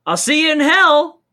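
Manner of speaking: high, loud mock villain threat; hammed-up demon taunt; mock villain line. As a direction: ham up the evil farewell. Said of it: "he just looks at him and goes".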